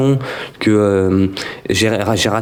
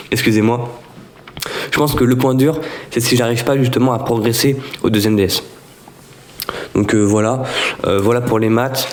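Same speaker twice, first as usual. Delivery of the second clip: speaking with a sore, swollen throat. Real, not acted. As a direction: talk through a sore throat. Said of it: "j'ai mal à la gorge".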